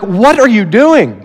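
slow, mild asking; gentle question. Shown as a demonstration. Husband mildly asking his wife across the bed. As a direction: ask it kindly and slowly. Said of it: "probably didn't say it like that".

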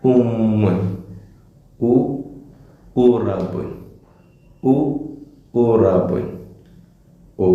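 ഉമ്മുൻ, ഉറബുൻ, ഉദുനുൻ each opened with a clear short ഉ; teacher's careful repeat-after-me; model pronunciation. Shown as a demonstration. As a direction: drill each word twice for the class, ഉ set apart first. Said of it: "ഈ മൂന്ന് വാക്കുകളുടെയും".

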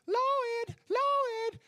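high, loud call of a name from afar. Retold or imitated. A voice calling out to Lloyd by name. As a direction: call his name across the hall.

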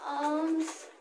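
soft, pleading beggar's call; begging. Acted. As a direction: ask for alms weakly, like a starving child. Beggar child pleading for alms.

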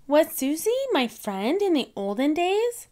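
put-on high little girl voice; light, high child pig voice; Peppa voice. A narrator's reading. Peppa's question in story.

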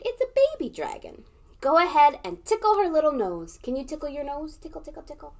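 put-on high sing-song baby talk; cooing. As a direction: coo at the little dragon.

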